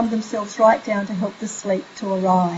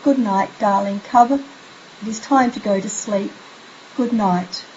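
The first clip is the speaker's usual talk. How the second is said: gentle bedtime goodnight. Shown as a demonstration. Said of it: "you could even have your child say".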